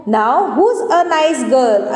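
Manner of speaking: very slow, lightly affectionate granny line; loving granny. Acted. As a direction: draw it out with a touch of fondness. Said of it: "बड़े ही प्यार से बोलते हो". (थोड़े प्यार से, बहुत धीरे)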